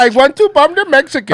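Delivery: high, loud gung-ho politician voice; mocking Vivek. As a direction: bark it like an eager warmonger. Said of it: "That's how he talks".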